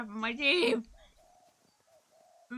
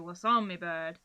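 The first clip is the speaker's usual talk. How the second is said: a light Cornish "What's on me bird?" with "on" stressed, said louder; Cornish greeting; 6 dB louder than usual. Retold or imitated. Streamer showing how locals greet a woman. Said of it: "if you were to speak to a woman, you'd go".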